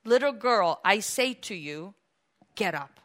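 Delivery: measured, tender command; gentle command. Acted. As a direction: gently bid her rise. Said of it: "by the hand and said".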